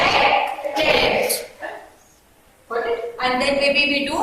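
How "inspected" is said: "inspected" said carefully as in-SPEC-ted; model pronunciation. Shown as a demonstration. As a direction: show them "inspected", each syllable clear. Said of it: "This is how we pronounce".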